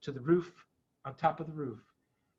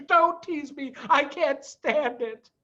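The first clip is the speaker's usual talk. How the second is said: pained plea; 9 semitones higher, slower than usual. A narrator's reading. Voiced Badger character.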